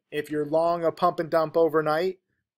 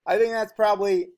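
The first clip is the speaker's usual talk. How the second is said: talking with a hair in mouth; 5 semitones higher, 4 dB louder than usual. Real, not acted. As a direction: speak around a hair in mouth. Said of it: "I have a hair in my mouth".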